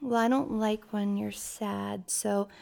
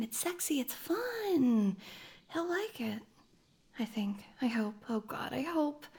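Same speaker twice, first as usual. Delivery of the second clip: nervous murmur; 8 dB quieter than usual. Acted. Alone, nervous before reveal.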